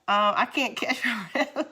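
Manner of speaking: laughing, out of breath; gasping giggle; breathless laughter. Real, not acted.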